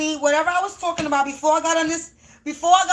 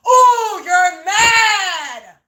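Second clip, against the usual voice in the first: mocking taunt; 5 dB louder, much slower than usual. Real, not acted. Mocking the upset neighbors, gloating sing-song taunt. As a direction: gloat over them, mock-crying.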